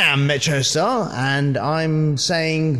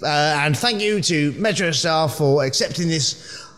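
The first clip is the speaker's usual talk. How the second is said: pretending to be Jokeworm; 3 semitones higher than usual. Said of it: "I'm actually Metro Star making the rest of that up".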